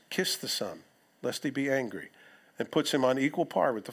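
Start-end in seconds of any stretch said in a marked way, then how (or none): 0.1-2.1 quiet. Shown as a demonstration. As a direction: let the warning drop to a grave hush. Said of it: "The Old Testament scripture says".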